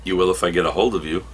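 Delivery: quick, understated threat in an even voice; acted cool comeback, no fuss; perfectly calm. Barda answering Lashina's vow, perfectly calm. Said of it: "perfectly calm".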